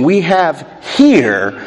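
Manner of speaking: slow, with "here" set apart and lengthened; pause, then land firmly on "here"; measured phrase pointing up "here"; stress on HERE. Shown as a demonstration. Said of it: "the Greek is interesting".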